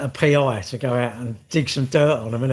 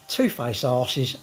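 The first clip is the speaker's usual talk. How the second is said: slow sneer; much slower than usual. Pretend. Mock farewell from the coffin.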